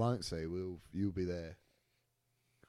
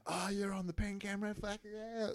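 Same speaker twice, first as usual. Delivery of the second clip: much higher hyped-up mock cheer; imitating drunk mates; 12 semitones higher, 3 dB quieter than usual. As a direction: play a drunk mate on camera. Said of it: "the whole night just became".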